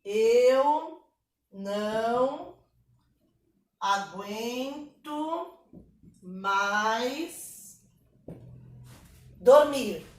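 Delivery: eu, não, aguento, mais, dormir spaced apart, aguento slow, dormir punched; drawn-out verse line. Shown as a demonstration. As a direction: dictate each word with pauses. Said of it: "Então".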